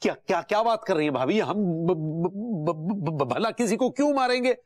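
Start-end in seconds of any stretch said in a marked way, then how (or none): 1.5-4.6 nervous stammer. Acted. Flustered denial, stammering.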